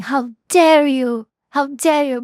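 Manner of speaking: a hint of an indignant official; serious angry rebuke. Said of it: "Look at her very serious and angry and saying".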